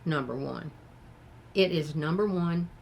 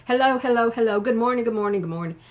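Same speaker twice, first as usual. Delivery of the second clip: imitating a chirpy host; 3 semitones higher, 6 dB louder, faster than usual. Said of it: "and she goes".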